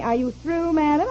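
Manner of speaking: lightly imitated operator asking; quoted operator's question, rising at the end; operator's query. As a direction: ask it as a polite rising question. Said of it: "finally she says to me".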